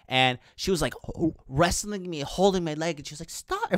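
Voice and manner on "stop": very high mimicked girl's voice; put-on falsetto imitation; high-pitched voice. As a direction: squeak it like the drunk girl. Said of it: "with her, like, high-pitched voice".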